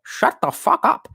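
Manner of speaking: a high, put-on old lady snapping; lightly voiced grandma telling someone off; old person voice. Grandma voice snapping at chat, lightly done. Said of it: "this is how I do older people".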